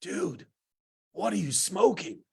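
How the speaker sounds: imitating a half-awake mumbler; groggy, lightly acted disbelief; sleepy. Woken counselor to the man rousing him, sleepy. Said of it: "in his very sleepy voice".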